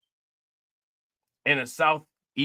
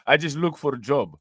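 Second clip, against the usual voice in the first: lightly imitating a Russian accent. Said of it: "he said in a Russian accent".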